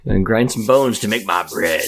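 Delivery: slow, mock giant's rhyme; lightly voiced giant. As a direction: draw it out like a fairy-tale giant. Playing the fee-fi-fo-fum giant.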